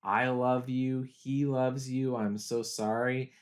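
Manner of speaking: slow, gentle, sorrowful; tender apology. Retold or imitated. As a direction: say it slowly like comforting someone dying. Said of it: "He says".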